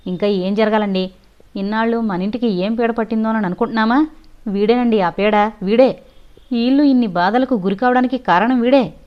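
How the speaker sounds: a wife pointing at the culprit, fuming; agitated outburst. Acted. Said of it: "అంది ఆవేశంగా భారతి".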